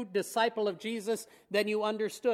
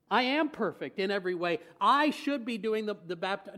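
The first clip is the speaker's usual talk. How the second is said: mock smug Jesus. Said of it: "Does he say".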